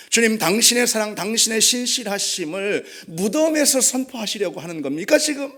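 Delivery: impassioned plea, rising in force; protesting cry to God. Acted. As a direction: cry out the questions in anguished protest. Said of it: "그런 절규인 것입니다".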